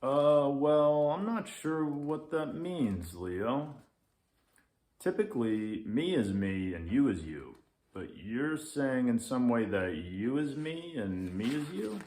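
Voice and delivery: puzzled grumpy lynx. Acted.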